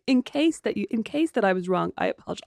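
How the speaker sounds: parroting a silly apology with scorn; sarcastic mimicry of a half apology; mocking repeat. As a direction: echo her apology to make fun of it. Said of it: "I'm gonna say that from now on".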